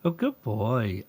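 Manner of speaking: gentle, pleased praise; warm praise. Shown as a demonstration. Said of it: "you can really hear that contrast".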